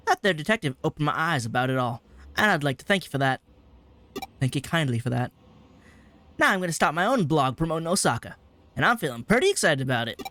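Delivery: lightly voiced folksy dialect, grateful; folksy Kansai-dialect character. Dialect fellow's thank-you email read aloud, lightly folksy and grateful. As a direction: read it with a hint of country-style dialect.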